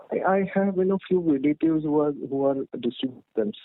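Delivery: muffled, like a hand over the mouth. Real, not acted. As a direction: speak through a covered mouth. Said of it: "You're sounding muffled".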